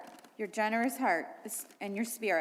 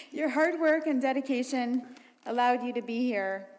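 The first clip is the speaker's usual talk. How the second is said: real tears of pride coming through; tearful; 3 semitones higher, 4 dB louder than usual. Real, not acted. Mom tearing up while praising her daughter, voice cracking. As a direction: voice breaking, pushed a bit louder. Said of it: "Ugh, I'm gonna cry already".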